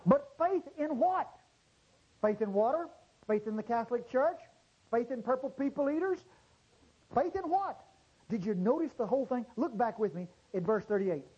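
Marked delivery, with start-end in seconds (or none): 0.0-7.8 each "Faith in" question pitched higher, building to a high "what"; rising rhetorical questions. Acted. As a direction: climb higher with every question. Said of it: "rhetorical questions building up".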